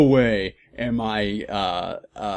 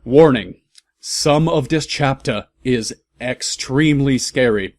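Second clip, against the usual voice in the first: WARNING announced much louder, falling; mock loud warning; 4 dB louder than usual. Shown as a demonstration. Reader announcing the fic's warning to listeners, mock loud boom. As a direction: boom the word Warning like an alarm. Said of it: "there's a warning here".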